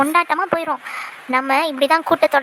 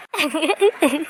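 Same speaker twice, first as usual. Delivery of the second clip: gloating laugh. Acted. Sibling laughs at scolded child.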